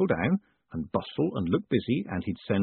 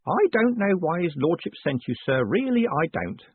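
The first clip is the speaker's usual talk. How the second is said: put-on old Grote whispering; 7 semitones higher than usual. A narrator's reading. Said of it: "he whispered".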